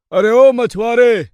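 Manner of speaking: loud slow hail across the water; calling out. Acted. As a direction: shout out to someone far. Calling to boatman across river.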